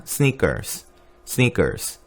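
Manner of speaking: 스니커스 as sniks, one k sound; 스니커스 short with one k; American Snickers. Shown as a demonstration. 수업에서 스니커스 발음 시범. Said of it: "K처럼 한 번만 발음해요".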